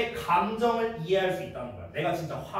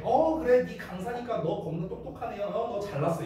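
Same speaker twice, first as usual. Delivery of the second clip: sarcastic jab. Retold or imitated. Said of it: "이거야, 말투가".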